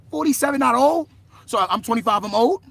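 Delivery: loud, high questioning protest; indignant disbelief. Real, not acted. Twenty-five-year-old disputing who counts as old, loud indignant protest. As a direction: throw it back loudly, affronted. Objects to being called old.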